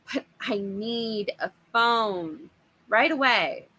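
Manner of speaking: slow, firm and pressing; angry insistence. Acted. Father demanding a phone from the costumed monster, slow angry insistence. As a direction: plant your feet and demand it slowly. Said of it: "Dad insisted, glaring angrily".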